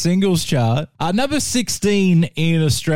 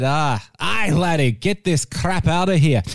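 hammed-up Scottish accent, lightly done; a jokey mock Scottish laddie accent; bad Scottish accent; 3 semitones higher than usual. Chart host mocking Scotland in a bad Scottish accent. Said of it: "worst Scottish accent of all time".

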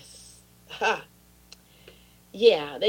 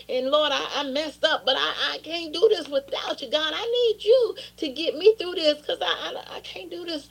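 rueful laugh while confessing, rising higher; laughing through it; 5 semitones higher than usual. Real, not acted. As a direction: laugh at yourself as you pray.

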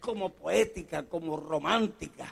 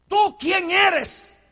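very slow, weighty challenge; preacher questioning the congregation; slow, searching question; 11 semitones higher, 8 dB louder, much slower than usual. Acted. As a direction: lean on tú.

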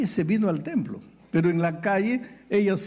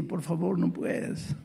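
softer, nearly voiceless refusal; hushed refusal; 6 dB quieter, slower than usual. Retold or imitated. Deacon hushing the woman at the door, whispered. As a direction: drop to a breathy whisper.

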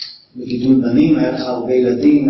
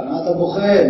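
scolding; 4 semitones higher than usual. Pretend. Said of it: "לא, רבי יוחנן לא אמר לו".

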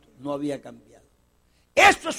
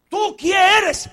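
questioners of John; 9 semitones higher, 8 dB louder, slower than usual. Retold or imitated. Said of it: "le preguntaron a Juan".

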